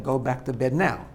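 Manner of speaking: quiet, level and firm, no anger; calm and assertive. Retold or imitated. Parent to a child up at night, calmly assertive. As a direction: settle the child firmly without raising your voice. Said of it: "very calmly and assertively saying".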